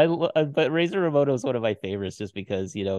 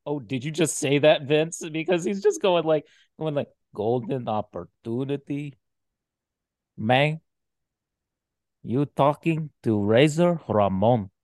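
Razor Ramon impression. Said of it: "a Tony Montana impression".

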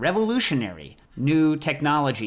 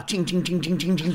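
cymbal monkey ching; 5 semitones higher than usual. Pretend. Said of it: "She can wind me up".

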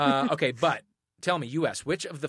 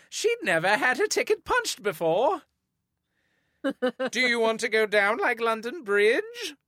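higher cheeky Cockney music-hall voice; old-timey bawdy music-hall delivery; saucy old-timey accent; 9 semitones higher than usual. Pretend. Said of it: "you have to do the accent".

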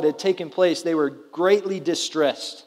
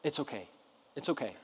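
much softer, mumbled "It's okay"; imitating a sulky kid forced to forgive; grudging mumble; 5 semitones lower, 17 dB quieter, faster than usual. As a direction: barely get it out, like a kid who lost. Child forced to accept apology.

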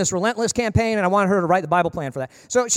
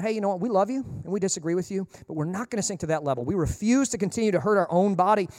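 softer, gently firm; calm, loving reply; 3 semitones lower, 5 dB quieter than usual. Acted. People answering an insult with love, calm and soft. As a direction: answer gently, without striking back.

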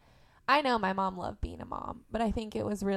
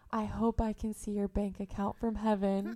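mom's cheeky line. Retold or imitated. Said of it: "she has the balls to say".

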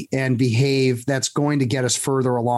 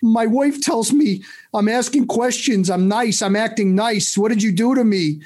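lightly voiced Stu; 8 semitones higher than usual. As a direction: play the baffled client on the phone. Stu complaining about his wife.

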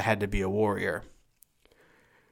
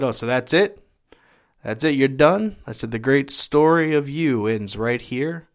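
raised, incredulous challenge; tough-love challenge, pitched up; challenging; 3 semitones higher, 4 dB louder than usual. Retold or imitated. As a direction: confront him with pointed, rising questions. Confronting stepfather who plans suicide.

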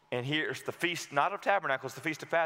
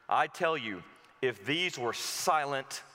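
calm solemn answer; 3 semitones lower, slower than usual. Acted. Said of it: "He answered".

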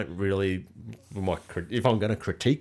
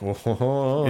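startled whoa; 6 semitones higher, 4 dB louder than usual. Retold or imitated. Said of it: "that's when I'm like".

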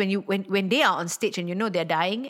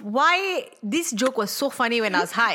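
laughing self-quote. Retold or imitated. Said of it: "I thought to myself".

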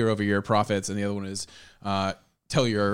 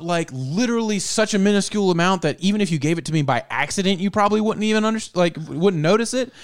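much higher, louder pleading worker voice, rushing; mock timid worker; 10 semitones higher, 4 dB louder, faster than usual. Worker begging boss for a tiny raise, high and hurried. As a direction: plead fast in a squeaky put-on voice. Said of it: "It's like".

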